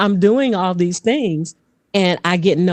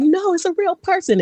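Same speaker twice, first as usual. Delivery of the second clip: high, insistent exclamation; exploding crowd; 11 semitones higher than usual. Retold or imitated. Imitating the room defending her as real, high excitement. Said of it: "everybody just exploded saying".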